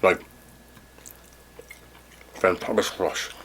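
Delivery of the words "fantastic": slow, soft, drawn-out praise; savoring. Real, not acted. Reviewer praising brisket, slow soft savoring. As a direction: stretch the word out, lost in the taste.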